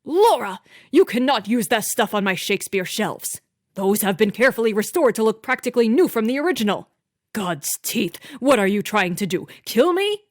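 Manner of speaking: loud raging husband's tirade; furious shout. A narrator's reading. Master shouting at housekeeper over shelves, furious. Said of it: "Franklin shouted so loudly".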